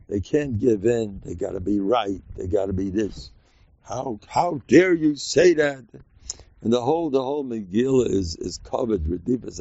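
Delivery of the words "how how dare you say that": slow mock indignation; drawn-out, higher-pitched mock offense; indignant. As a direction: play affronted, stretching out the words. Voicing one who can't bend.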